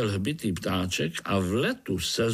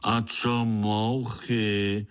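slow, sulky question; a touch of grumbling old spider; grumpy old spider; much slower than usual. Acted. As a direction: ask it like a peeved old grump. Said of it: "zeptal se znovu starý pavouk".

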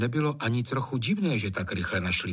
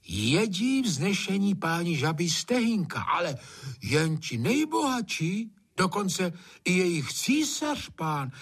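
storytelling gamekeeper; 8 semitones higher than usual. Acted. Hajný telling his master about French frog legs. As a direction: spin the tale wide and grand. Hajný spins a tall tale.

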